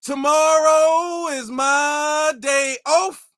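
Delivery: slow, exaggerated proper-talking impression; mock proper voice. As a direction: overdo a stilted, formal way of talking. Mocking an overly proper speaker.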